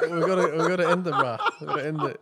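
laughing. Real, not acted. Both cracking up, wrapping up.

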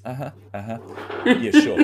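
mocking uh-huh sliding into a high, loud yeah sure; sarcastic disbelief. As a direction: show you don't buy the excuse. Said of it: "He goes".

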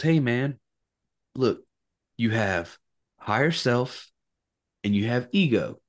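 lightly voiced laid-back hippie. Hippie explaining to a beaten-up prisoner, lightly voiced hippie. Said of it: "Hippie Jimmy, he's, m-, you know, smoking a joint".

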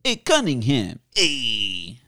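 lightly voiced cool greaser greeting; drawn catchphrase with a touch of swagger; Fonzie. Shown as a demonstration. Co-host showing his best impression, light greaser swagger. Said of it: "Do your best, Fonzie".

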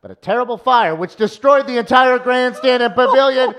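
high, loud melodramatic newsreel voice; dramatic old-timey reporter. Acted. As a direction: build to a dramatic climax, slowing on the end. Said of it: "Old-timey voice".

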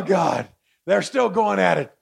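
ordinary talk, nothing marked

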